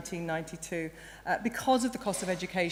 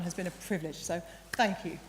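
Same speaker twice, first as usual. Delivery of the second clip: croaky, choked-up voice; 6 dB quieter than usual. Real, not acted. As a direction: voice cracking with emotion. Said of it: "And there I am with a croaky voice".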